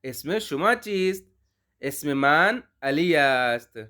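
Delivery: slow, careful Persian model phrases; slow model dialogue. Shown as a demonstration. Teacher reading a model Persian dialogue slowly. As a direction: read it slowly for learners to repeat. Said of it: "اب اس گفتگو کو دوبارہ سنیے گا".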